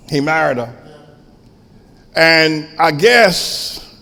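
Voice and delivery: ordinary delivery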